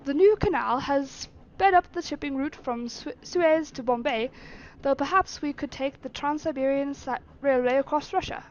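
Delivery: lightly attempted British accent; measured master with a hint of British accent. Master weighing up routes for servant, British accent. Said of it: "doing a British accent".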